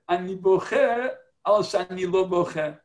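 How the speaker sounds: lightly voiced soldier, slow and deliberate; slow Hebrew quote. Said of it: "He said".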